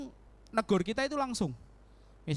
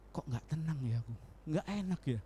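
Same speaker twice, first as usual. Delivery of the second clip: uneasy; 3 semitones lower, 7 dB quieter than usual. Retold or imitated. Voicing uneasy conscience.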